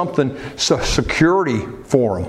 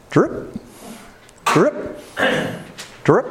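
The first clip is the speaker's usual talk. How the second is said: dripping sound; 5 semitones higher, much slower than usual. Retold or imitated. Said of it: "you hear through the wall".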